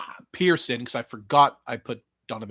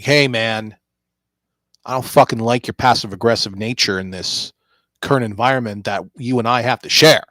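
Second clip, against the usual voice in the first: annoyed confrontation; 9 dB louder than usual. Retold or imitated. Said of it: "they would be like".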